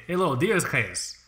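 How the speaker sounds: lightly put-on Vlad accent; slow greeting in a hint of Vlad's accent. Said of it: "I did my Vlad accent".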